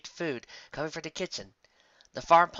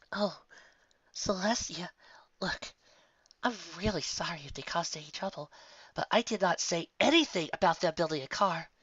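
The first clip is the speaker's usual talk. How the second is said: pleading apology; 6 semitones higher than usual. Acted. Sandalwood apologises to angry Applejack, high and anxious. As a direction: beg to be understood.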